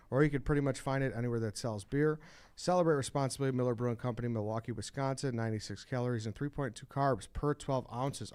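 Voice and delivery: upbeat sponsor read. Acted. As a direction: read it like a radio ad. Host reads Miller Lite ad.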